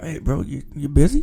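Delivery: put-on, secretive whispered voice. Retelling a phone call from Jesse: imitating Jesse's secretive whisper. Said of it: "he talk as if he whispering".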